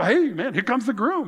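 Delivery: mock-excited wedding crowd calling out. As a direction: hail the groom coming down the street. Crowd greeting the groom.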